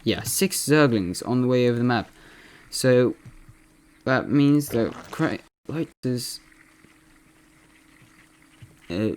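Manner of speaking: lightly imitated esports caster; Loco impression. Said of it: "I'm gonna be impersonating Loco".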